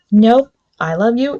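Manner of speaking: high, loud love confession; excited declaration. Retold or imitated. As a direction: blurt it out happily. Couple confesses love, quoted.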